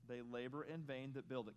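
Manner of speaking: slow, measured reading of a verse; measured scripture recitation. Shown as a demonstration. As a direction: read it out deliberately. Reads scripture slowly.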